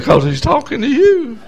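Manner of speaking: loud, rising plea building to a shout; preacher voicing an insistent divine appeal; Holy Spirit urging. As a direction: call them forward with mounting force. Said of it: "the Holy Spirit said".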